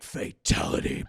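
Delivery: whispered fighting game announcer. Retold or imitated. Michael finishing Rudy off, whispered mock announcer. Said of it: "Michael's like".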